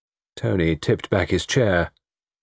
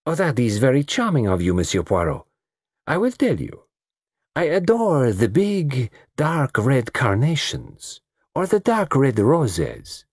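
coquettish South American woman; 6 semitones higher than usual. Acted. Lola naming her favourite flowers to the detective, coquettish. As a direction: savour each phrase extravagantly.

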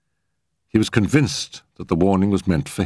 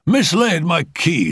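high, slow gentleman explaining; high-voiced uncle owning up; Sir Allington; 11 semitones higher, 4 dB louder, slower than usual. A narrator's reading. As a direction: explain it deliberately in a pitched-up voice. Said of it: "explained Sir Allington".

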